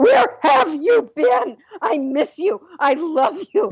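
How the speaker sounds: clingy, needy dog voice, high and slow. Speaker acts out their dog greeting them after getting the mail; voicing a needy dog. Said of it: "my dog goes".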